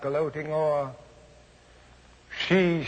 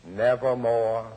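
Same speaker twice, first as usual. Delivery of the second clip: a lightly voiced grim raven; raven's reply; 6 semitones lower than usual. A narrator's reading. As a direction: answer as the dark bird. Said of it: "Quoth the raven".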